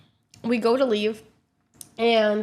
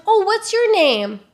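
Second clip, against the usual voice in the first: imitating driver; 11 semitones higher, 5 dB louder, slower than usual. Driver voiced, slow high.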